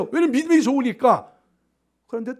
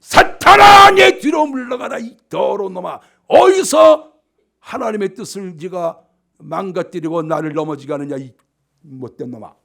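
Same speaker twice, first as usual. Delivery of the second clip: furious rebuke; 2 semitones lower, 8 dB louder than usual. Acted. The Lord flings Peter away, angrily shouting. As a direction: roar the first words as if hurling someone off. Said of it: "목을 잡아가지고 확 집어던지면서".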